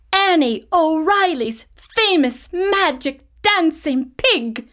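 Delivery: a circus boss selling big dreams; lightly voiced smooth salesman; circus man. Circus man's offer.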